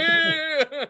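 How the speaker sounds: high giddy cheer; getting excited. Retold or imitated. Eavesdropper listening to the row, giddy excitement. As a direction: act out gleeful anticipation. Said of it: "I'm, like, getting excited".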